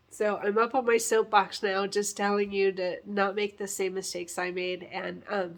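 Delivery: talking while chewing gum. Real, not acted. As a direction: speak around a piece of gum. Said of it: "sorry, I'm chewing gum".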